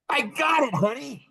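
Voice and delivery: high, eager announcement; excited little boy. Retold or imitated. Husband telling his wife he has worked it out, boyishly excited. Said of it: "I'm a three-year-old boy".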